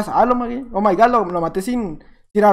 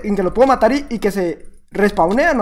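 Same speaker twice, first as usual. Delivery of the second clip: usual speaking voice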